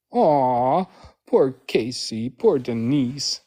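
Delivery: slow mock-pitying coo; drawn-out fake sympathy. Real, not acted. Mock pity for named critics.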